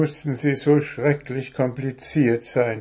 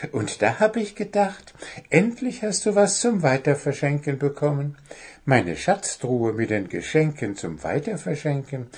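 goblin; 3 semitones higher than usual. Acted. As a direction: confess cheerfully. Goblin confesses regifting.

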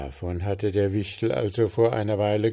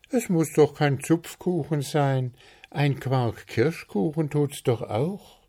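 higher-pitched, encouraging consolation; consoling; 6 semitones higher than usual. A narrator's reading. Zwitschi offering the gnome another cake, consoling. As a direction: comfort him with an easy alternative. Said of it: "den Wichtel zu trösten".

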